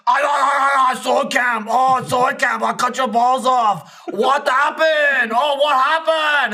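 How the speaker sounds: loud, high mock Schwarzenegger taunt; Arnold impression. Taunting a sword camper as Arnold, loud hammed-up accent. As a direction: ham up the Arnold voice. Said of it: "go Arnold on people".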